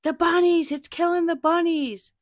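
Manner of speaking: aunt yelling that the dog is killing the bunnies, shrieked high and loud; frantic yelling. Retold or imitated. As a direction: belt it out like a panicked aunt upstairs. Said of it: "she keeps yelling".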